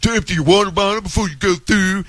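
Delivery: a snide, mocking put-on voice; mocking commenter. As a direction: parrot the trolls with contempt. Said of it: "making fun of me".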